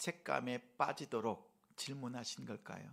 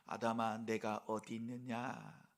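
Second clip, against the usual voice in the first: low, slow, tender call; warm, not rebuking; 5 semitones lower, 4 dB quieter, slower than usual. Retold or imitated. Preacher voices God calling fallen Adam, warm and tender. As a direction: call gently, drawing out the question. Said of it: "책망의 음성이 아니라 따뜻한 음성으로".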